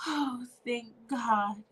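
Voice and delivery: relieved sigh. Acted. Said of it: "Erica let out a deep sigh".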